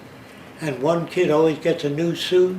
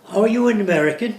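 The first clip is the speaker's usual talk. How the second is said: put-on English accent; 5 semitones higher, 4 dB louder, faster than usual. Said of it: "If, if he's English".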